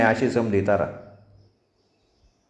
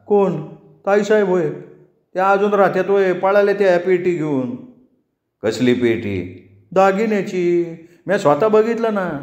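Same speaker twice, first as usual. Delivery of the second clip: much higher, gossiping servant voice; village helper; 7 semitones higher than usual. Acted. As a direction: tell the master eagerly what you saw. Helper tells of theft.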